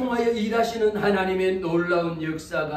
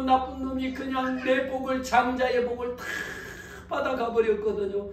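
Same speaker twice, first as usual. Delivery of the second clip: ordinary talk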